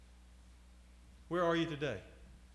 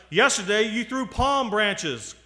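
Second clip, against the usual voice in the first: slow, high, loud protest; shouted; 6 semitones higher, 7 dB louder, slower than usual. A narrator's reading. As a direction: shout it out slowly in indignation. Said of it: "he shouted".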